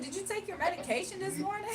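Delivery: fake-caring question; mocking question. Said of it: "I said".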